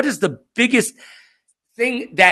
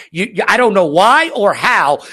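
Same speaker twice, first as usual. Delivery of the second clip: put-on scolding girlfriend; 5 semitones higher than usual. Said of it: "She's like".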